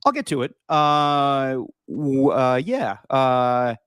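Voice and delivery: groggy jet lagged start. Real, not acted. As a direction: jet lagged, brain fried mumbling. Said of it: "If I sound a little jet lagged".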